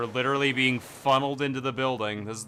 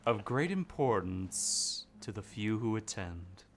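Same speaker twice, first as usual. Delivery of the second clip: slow, soft smoker's rasp; chain smoker voice; 3 semitones lower, 5 dB quieter, slower than usual. Acted. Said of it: "chain smoker".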